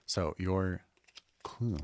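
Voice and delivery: unvoiced hush into the mic; whispering a secret password. Real, not acted. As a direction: whisper so the others can't hear. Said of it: "I'm gonna whisper it into the microphone".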